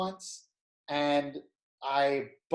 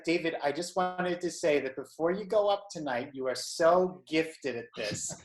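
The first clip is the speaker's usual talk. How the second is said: Jewish mom voice. Retold or imitated. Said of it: "in, like, a Jewish mom voice".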